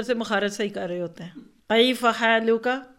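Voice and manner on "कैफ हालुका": slow, loud, showy Arabic-style salaam; pompous drawn-out greeting. Retold or imitated. Mocking a new Tajweed learner, slow showy salaam. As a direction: stretch the greeting out to sound learned. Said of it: "ये tone बनती है".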